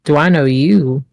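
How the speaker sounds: eye him and ask it back with doubt; suspicious squint. Acted. Olive squints and asks back suspiciously. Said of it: "Squint suspiciously".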